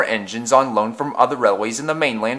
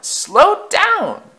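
far higher, rising panic on "slow down"; frantic wail; 5 dB louder than usual. Acted. Old coaches beg Afton to slow, frantic high wail. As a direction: scream it as the speed gets worse. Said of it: "they wailed".

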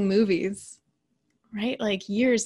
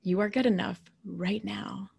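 softer affirmation; 3 dB quieter than usual. Shown as a demonstration. Coach repeating the affirmation for listeners, softer. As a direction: let it settle gently. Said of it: "notice how this statement feels".

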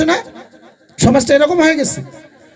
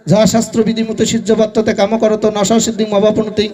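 chanted shloka, a little lower and steady; Sanskrit recitation; 3 semitones lower than usual. Acted. Preacher to the gathering, reciting Gita shloka. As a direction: intone the verse like scripture.

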